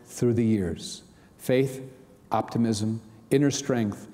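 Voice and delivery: measured, earnest reading of an affirmation; devotional reading. Acted. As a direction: read it as a gentle daily prayer. Reads the daily devotional aloud.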